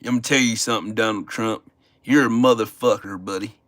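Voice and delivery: lightly voiced Southern MAGA guy, low; a lightly played redneck growling threats; mock MAGA voice. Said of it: "Don't I sound like a fucking maga".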